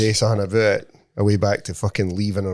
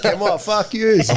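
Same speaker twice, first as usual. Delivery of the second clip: mock defiant quitting; 10 semitones higher, 3 dB louder, slower than usual. Imitating friend quitting job.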